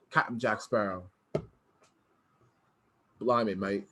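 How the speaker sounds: put-on low, soft half-hearted pirate accent, Jack Sparrow style; a hint of a British pirate drawl. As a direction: mutter it like a lazy Jack Sparrow. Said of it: "Try it again".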